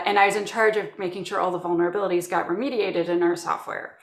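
usual speaking voice

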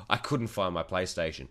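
laughing through a lame excuse; quick excuse. Retold or imitated. Caught by mum, laughing through the excuse. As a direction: blurt it out fast while cracking up. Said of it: "as quick as I could".

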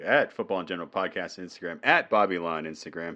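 smooth announcer read of the plugs; lightly put-on radio host voice. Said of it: "Here comes the radio voice out of nowhere".

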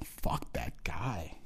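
soft, slow unvoiced whisper; whispered aside at the credits; mock whisper. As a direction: hiss it under your breath like a mourner. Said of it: "people go".

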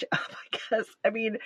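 breaking into a real, helpless laugh mid-phrase; nervous laugh swallowing the words; stress laughter. Real, not acted. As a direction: laugh through the words in uneasy disbelief. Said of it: "I'm sorry to laugh".

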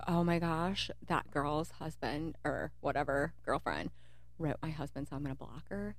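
soft, fading mock prissy wife; quietly imitating the offended wife. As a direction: mimic a snooty wife under your breath. Mocking the wives' reaction.

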